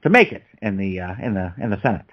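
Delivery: halting, hesitant presidential delivery, loosely imitated; badly faked statesman, pausing on filler words; Obama. Co-host sizing up a New York candidate, hammy Obama impression. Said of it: "There was my bad Obama impression".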